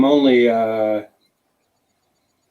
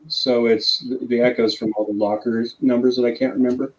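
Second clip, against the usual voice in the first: big hall echo. Real, not acted. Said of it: "sounds like you're broadcasting in a hall".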